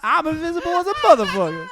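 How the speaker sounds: loud, high put-on Black accent. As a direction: shout it in a hammed-up Black voice. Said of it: "how far my black voice carries".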